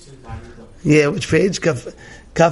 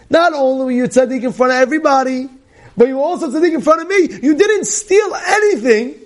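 climbing higher, ending in a near-shout; rising exclaiming praise; 7 semitones higher than usual. Acted. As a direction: build to a joyful cry. Hashem's voice praising Noach.

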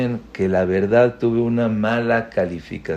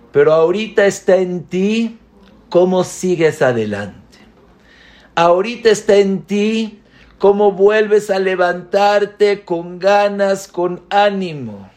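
higher, pushing each phrase out with mounting force; rousing teacher; 7 semitones higher, 4 dB louder than usual. Retold or imitated. Teacher urging a crying student to get back up, rising and emphatic.

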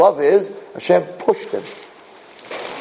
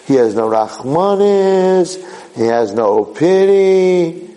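mock critic; 2 semitones higher, slower than usual. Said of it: "saying, like".

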